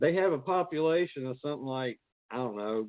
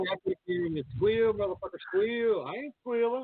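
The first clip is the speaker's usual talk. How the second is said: mock squeal bit; 10 semitones higher than usual. Mocking the squeal movie line.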